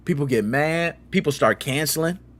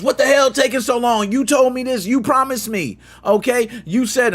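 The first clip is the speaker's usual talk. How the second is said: angry; 6 semitones higher than usual. Retold or imitated. Customers yelling at the resellers.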